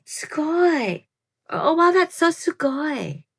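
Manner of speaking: put-on valley girl. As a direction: play a bubbly valley girl saying sugoi. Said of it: "sound like a valley girl".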